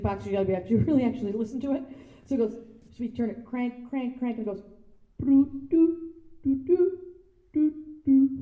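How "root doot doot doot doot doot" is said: high, tooting music-box notes; music box imitation. Imitating the music box she cranked, high tooting notes. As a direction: toot out a tinny little tune.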